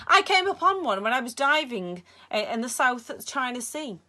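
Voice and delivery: put-on a high, loud Egyptian-accented Sale; lightly done Cairo marketplace accent, proud; heavy Cairo accent. A narrator's reading. Villain Sale shows the boy his jellyfish, Cairo accent. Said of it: "He had a heavy accent brought with him from the Cairo marketplace".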